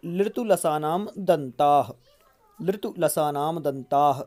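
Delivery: sutra recited slowly and deliberately; slow recitation. Shown as a demonstration. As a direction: chant it slowly for memorising. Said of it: "दंत से उच्चारित होने वाले वर्ण".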